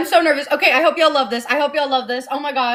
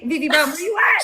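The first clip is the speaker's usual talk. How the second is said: shouted call to a friend. Real, not acted. Host calls out to a friend who might be watching, playful shout. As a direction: call her name across the room.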